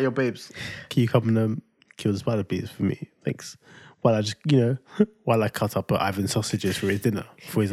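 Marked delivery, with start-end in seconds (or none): 0.0-3.6 soft, fading plea to kill the spider; timid soft request. Retold or imitated. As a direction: ask sheepishly, trailing off. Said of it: "I was like".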